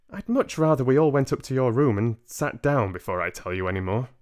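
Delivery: a hint of a tactful old lady; politely firm elderly woman; lightly voiced grandmother. Grandmother urging the parents upstairs, lightly voiced old lady.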